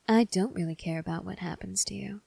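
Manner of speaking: cold whispered threat; menacing whisper. Acted.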